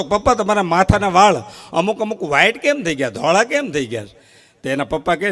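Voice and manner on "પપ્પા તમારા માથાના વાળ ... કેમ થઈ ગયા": put-on higher, curious little boy voice; a small boy pestering his father; child asking. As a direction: ask like an innocent kid.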